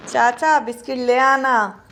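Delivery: clear, projected model phrase; speaking up. Shown as a demonstration. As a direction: show the child how to call out. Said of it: "आप तेज से बोलो".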